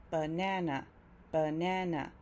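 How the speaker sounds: "banana" in three sounds, middle one strongest; three syllables. Shown as a demonstration. Teacher showing learners banana's three syllables, said distinctly. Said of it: "therefore it's three syllables".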